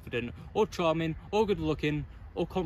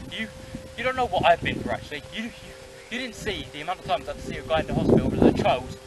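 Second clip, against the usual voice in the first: dramatic monologue. Acted. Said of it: "I can also do drama".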